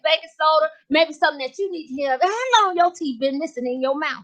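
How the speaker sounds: sassy gossiping lady voice, lightly voiced; Miss Jazzy character voice. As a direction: play a brassy gossip.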